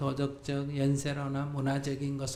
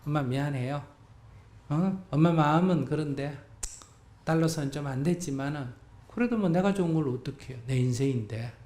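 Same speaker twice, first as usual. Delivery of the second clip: shameless cheerful. Shown as a demonstration. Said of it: "이렇게 좀 뻔뻔해야 돼".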